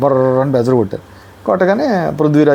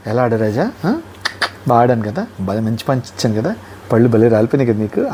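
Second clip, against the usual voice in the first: lower, smug winner rubbing it in; gloating taunt; 3 semitones lower than usual. Retold or imitated. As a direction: taunt the beaten man, savouring it. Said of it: "కొట్టునోడు వచ్చి".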